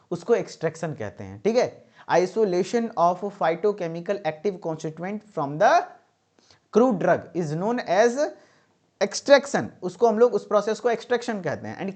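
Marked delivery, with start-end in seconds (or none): 2.1-9.7 very slow, word by word dictation; dictating a definition. Shown as a demonstration. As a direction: spell it out slowly so students can write. (परिभाषा धीरे-धीरे लिखवाना)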